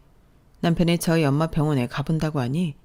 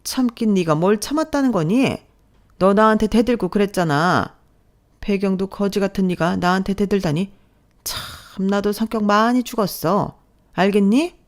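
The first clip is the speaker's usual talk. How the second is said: sneering mother-in-law; 3 semitones higher than usual. Acted. Mother-in-law mocking her daughter-in-law, sneering. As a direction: laugh at her complaint with contempt. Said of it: "비웃으시더라고요".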